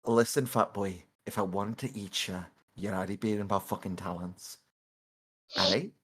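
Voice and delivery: low, soft threat; quietly intimidate your prey; predatory menace. Acted. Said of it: "like a predator looking at a quick meal just goes".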